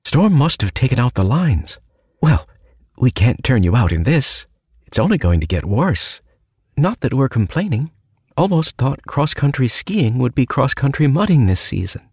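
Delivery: a nervous joking innkeeper mom; mum voice. Acted.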